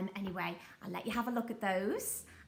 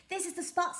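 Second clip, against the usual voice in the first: pirate captain voice; 8 semitones higher, faster than usual. Acted. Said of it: "said Handkerchief".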